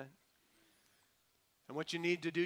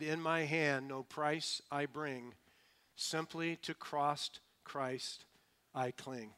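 slow, measured hymn lines; unhurried confession of faith; humble recitation; slower than usual. Acted. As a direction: recite it slowly, phrase by phrase. Humble man answers with hymn lines.

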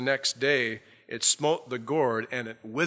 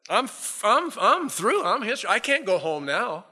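much higher and louder, panicky; despairing Jonah; 9 semitones higher, 5 dB louder than usual. Retold or imitated. Jonah wailing that he can't go home, high and loud. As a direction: cry out like a cornered prophet. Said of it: "Jonah said".

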